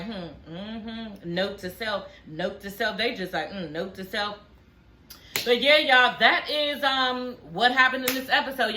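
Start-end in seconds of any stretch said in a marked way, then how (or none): 0.0-4.4 much softer, lower sly mumble; quietly file it away for later; muttered note to self. Retold or imitated. Cast members silently noting her secrets, soft sly murmur. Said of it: "they just looking like".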